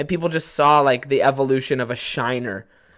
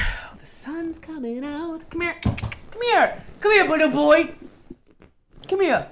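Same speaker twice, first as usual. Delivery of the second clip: much higher sing-song voice calling the dog; dog talk; 9 semitones higher than usual. Real, not acted. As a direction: coax the puppy over in a high pet voice. Calling the dog Kiwi over.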